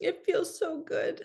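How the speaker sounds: high, slowing, tearful sob with happiness. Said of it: "crying, going".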